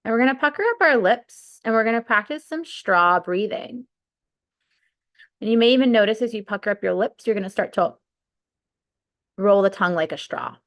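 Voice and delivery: unhurried breathwork guide, long pauses between cues; guided meditation. Real, not acted. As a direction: lead them through the breath, stretching key words.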